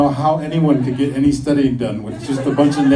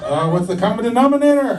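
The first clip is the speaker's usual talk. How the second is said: mock puzzled question; 10 semitones higher, 5 dB louder than usual. Puzzled partner at bar.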